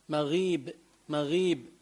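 مغيب with a thin "ghii"; light غ. Shown as a demonstration. Teacher repeating the correct form, مغيب with light غ. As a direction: keep مغيب easy, its غ light. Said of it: "منقول مغيب".

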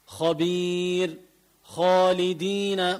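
خبير and خالدين with backed "kho"; heavy خ. Shown as a demonstration. Teacher repeating the rule's examples, heavy خ in خالدين. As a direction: slowly thicken each خ in خبير and خالدين. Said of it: "مفخمة".

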